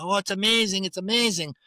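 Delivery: high, loud, gushing Italian jeweller. Retold or imitated. The narrator imitating his old boss Romeo, gushing Italian accent. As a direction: ham up an over-the-top Italian old man. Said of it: "He's going".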